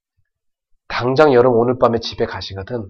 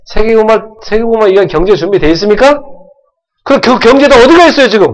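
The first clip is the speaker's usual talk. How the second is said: much higher and louder, almost shouting; full-force preaching; 10 semitones higher, 11 dB louder than usual. Real, not acted. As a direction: drive the question home to the crowd.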